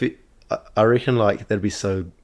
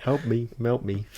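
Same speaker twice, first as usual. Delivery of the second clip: slow, higher-pitched mock plea; pleading elf voice; 4 semitones higher than usual. Joking as the elf melting on the stove, mock pleading voice. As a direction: play a tiny elf begging, lightly.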